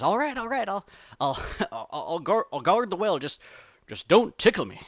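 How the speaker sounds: flustered cartoon bear giving in; panicked pleading. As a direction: plead as if about to be tickled. Bear panics at threat of tickling.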